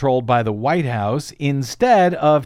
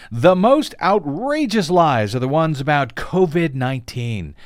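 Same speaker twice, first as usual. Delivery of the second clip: indignant quote reading; 4 semitones higher than usual. Retold or imitated. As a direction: read his tweet like a fuming blowhard. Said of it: "Woolery wrote, quote".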